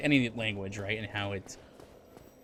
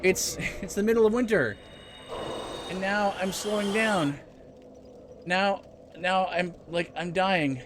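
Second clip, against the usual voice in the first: reptile in mock distress; 7 semitones higher than usual. Streamer pretends to be a reptile dying in winter, high mock wail. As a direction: play-act a cold-blooded creature helplessly winding down.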